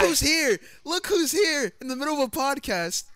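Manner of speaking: loud, high mock welcome; excited greeting. Real, not acted. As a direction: greet the newcomer loudly. Friend barges in mid-podcast.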